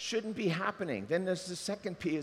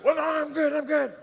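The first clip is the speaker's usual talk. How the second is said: mock sleepy excuse; 10 semitones higher, 8 dB louder than usual. Acted sleepy snooze excuse.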